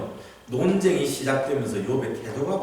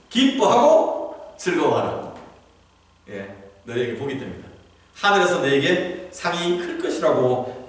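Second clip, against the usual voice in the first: scripture quote. Acted. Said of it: "주님께서 그 말씀하시죠".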